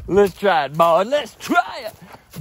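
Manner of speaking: excited. Real, not acted. Hypes himself up.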